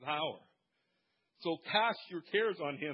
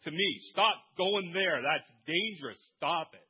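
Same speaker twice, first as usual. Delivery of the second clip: loud urgent warning; imperative call; 3 semitones higher, 6 dB louder than usual. Acted. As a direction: urgently warn them away. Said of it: "calling you with an imperative".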